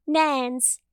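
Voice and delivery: awful attempt at Southern and British at once; muddled put-on Southern-British accent; half Southern, half British, convincingly neither; botched Southern-British accent. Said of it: "like, Southern and British at the same time".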